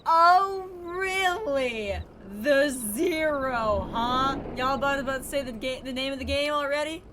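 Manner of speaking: squealing with delight at the name; excited. Real, not acted. Excited about the name Zero.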